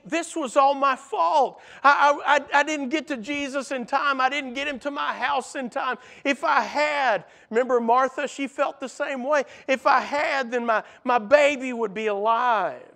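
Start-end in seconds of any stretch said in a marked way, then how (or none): 0.0-7.2 high, louder, stammering guilt; a father's panic breaking through; anguished self-blame. Acted. Jairus blames himself, anguished. 9.7-12.8 a father's panic breaking through; anguished self-blame. Acted. Jairus grieving his daughter.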